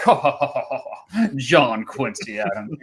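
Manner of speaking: hammed-up upper-crust chortle; amused elites. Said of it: "the elites would be like".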